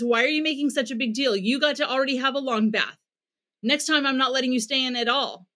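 mildly impatient, dismissive scolding; critical scolding. Shown as a demonstration. Parent waving off a child's bath protest, mock scolding. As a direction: brush off the upset with a light edge. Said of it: "if I criticize or minimize".

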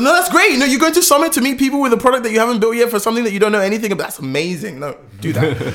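laughing, high, fast mock praise; sarcastic. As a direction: gush with fake enthusiasm. Mock encouragement of naive founders.

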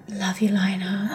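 put-on whispered New York accent; breathy whisper in a New York accent. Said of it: "The New York accent sounds better".

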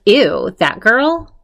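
mock disgust. Retold disgust at a woman coming.

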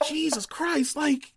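high-pitched laughing shriek. Real, not acted. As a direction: break into laughter mid-outrage. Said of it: "I was laughing so hard".

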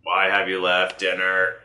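slow, even robot guard voice. Acted. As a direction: speak like a mechanical guard. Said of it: "you said it like a robot voice".

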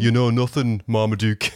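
put-on Sheffield accent, northern English; Sean Bean impression. Panellist voices a Great Dane as Sean Bean, Sheffield accent. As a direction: do Sean Bean's northern Sheffield growl of a line. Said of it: "can't help but picture Sean Bean".

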